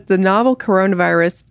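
even, straight article reading; mock news read. Reads a satirical article aloud.

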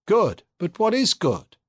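high, slow and lilting; sing-song voice. A narrator's reading. Ikonikov questions the old Bolshevik, high, slow sing-song. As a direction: let the question float up and down, slowly. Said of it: "in his sing-song voice".

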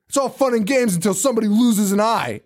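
high smug cop voice; a lightly voiced cop; cop's quip. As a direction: deliver the cliché like a smug cop. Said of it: "the cop's just like".

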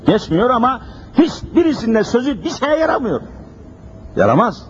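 ordinary talk, nothing marked

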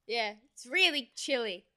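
cold and shivering after swimming. Real, not acted. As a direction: teeth chattering while talking. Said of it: "my teeth are chattering".

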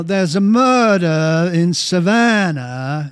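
a light Southern drawl on Savannah; Southern accent. Retold or imitated. Host doing his Savannah lawyer bit, light Southern accent. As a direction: lean gently into a Southern accent. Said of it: "all I could think was you say".

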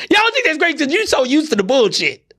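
high, laughing through the words. Real, not acted. To listeners used to injustice, laughing disbelief. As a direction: laugh while scolding them.

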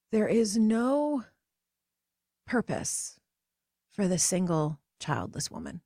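slow, heavy pronouncement with purpose almost breathed; solemn slow quote. Retold or imitated. Quoting the professor who told the class, slow and solemn. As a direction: drag each word out like a damning verdict.

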